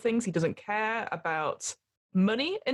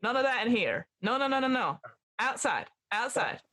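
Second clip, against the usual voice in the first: put-on librarian telling people off in an American accent; shooing them out, American-accented; 2 semitones higher than usual. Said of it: "Oh, sorry, American accent".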